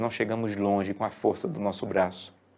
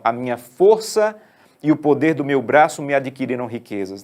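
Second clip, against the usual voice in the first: boastful claim; 2 semitones higher, 5 dB louder than usual. Retold or imitated. Quoting boastful heart.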